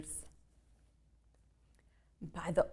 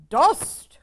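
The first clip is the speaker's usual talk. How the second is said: higher, louder cried word; goblin pa's cry; 8 semitones higher, 9 dB louder than usual. Acted. Goblin father cries out to his kids, loud. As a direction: shout it like a goblin dad. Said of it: "cried the pa".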